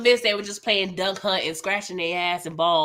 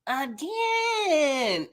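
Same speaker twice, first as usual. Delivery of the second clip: laughing exasperated echo; 8 semitones higher than usual. Retold or imitated. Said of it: "voicing Rock".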